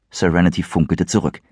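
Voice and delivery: usual speaking voice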